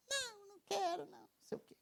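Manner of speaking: put-on high whiny teenage daughter voice, dropping to a mutter; mock pouty teen protest; mimicking sulky teen. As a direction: play the sulking teenager refusing chores. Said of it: "A, a rejeitada vem na hora".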